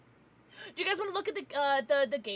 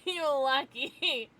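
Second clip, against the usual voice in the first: "You're lucky" said slowly through a laugh; laughing repeat; 3 semitones higher, 4 dB louder, much slower than usual. Shown as a demonstration. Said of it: "So you're lucky".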